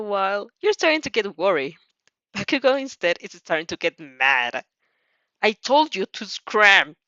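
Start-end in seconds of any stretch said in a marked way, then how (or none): 5.4-7.0 slow, heavy, louder warning; growled. Acted. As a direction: drag each word out like a threat. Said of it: "he growls".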